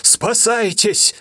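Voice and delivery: high, drawn-out cry; urgent high shout; shouted warning. Acted. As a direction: yell at them to run. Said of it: "крикнул он".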